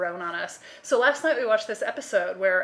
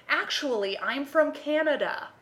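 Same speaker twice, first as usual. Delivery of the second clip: fake Canadian accent; 6 semitones higher than usual. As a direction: mimic a bad actress's stilted Canadian accent. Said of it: "And she talks like this".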